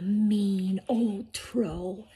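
slow, drawn-out villain introduction; ominous storytelling. A narrator's reading. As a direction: stretch the words out with menace.

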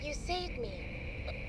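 low, dragged-out copy; slow eerie mimic voice. Mimic repeats lower and slower.

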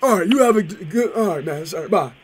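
hammed-up prank caller raving about chicken. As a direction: play a rowdy, overexcited customer on the phone. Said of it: "Was that a good voice?".

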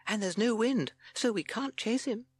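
high-pitched timid toad. A narrator's reading. Timid Toad objecting to the chase, high voice. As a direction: pipe up doubtfully. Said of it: "said Toad".

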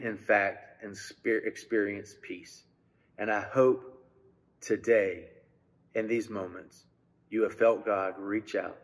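low, soft, phrase by phrase with pauses; solemn pastoral closing. Real, not acted. Pastor closing the sermon with hope of God's peace, hushed prayer. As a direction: ease gently down into a hushed prayer.

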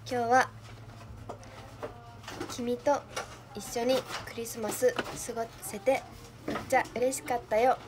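wooden, read-off romantic line; awkward flat delivery of a sweet line; stiff line reading. Pretend. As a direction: recite it stiffly like reading a script. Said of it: "めっちゃくちゃ棒読みになっちゃった".

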